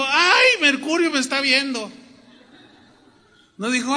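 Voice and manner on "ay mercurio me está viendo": high, loud mock-frightened cry; mock alarm. Preacher mocking fear of Mercury, mock alarm. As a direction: act out a silly fright at an idol. Mock idol-fearing believer, acted.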